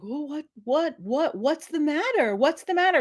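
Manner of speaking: high, pleading mock whine; high fussy mock voice; mocking the coworker. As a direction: squeak it out like a flustered boss. Coworker voiced pleading after husband.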